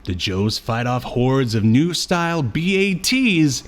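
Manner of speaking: announcer-like synopsis read, slowing at the end. Acted. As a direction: read it out like a dramatic episode teaser. Reads the synopsis aloud.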